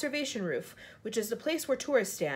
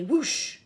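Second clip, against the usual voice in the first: sudden, louder whoosh; 2 semitones higher, 5 dB louder than usual. A narrator's reading. Narrator voicing a plane suddenly rushing past, whoosh. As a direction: imitate a rush of air.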